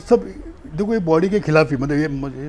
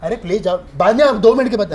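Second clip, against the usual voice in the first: staged pleading; 5 semitones higher, 6 dB louder than usual. Pretend. Staged argument continues.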